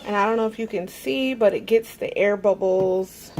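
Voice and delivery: talking over blender noise. Real, not acted. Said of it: "So I am sorry for the blender".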